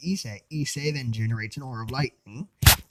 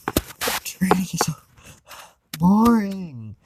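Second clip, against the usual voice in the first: whisper; 6 semitones higher, 6 dB louder than usual. Acted. Issei whines about training.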